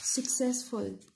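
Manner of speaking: "Successful" drawn out slowly; teacher sounding out the word; slow demo. Shown as a demonstration. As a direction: pronounce "Successful" slowly for the class. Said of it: "two syllables".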